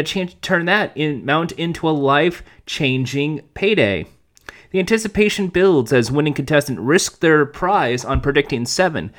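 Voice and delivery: brisk, even announcer read; press release read. Acted. Host reading the Card Sharks press release, announcer style. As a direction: read it out like promotional copy.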